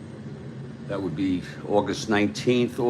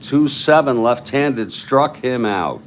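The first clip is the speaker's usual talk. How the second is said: raised, punchy play-by-play; excited strikeout call; 4 semitones higher, 6 dB louder than usual. Real, not acted. Announcer calling a strikeout on Downing's pitch, excited. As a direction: open high and loud, then draw out the out.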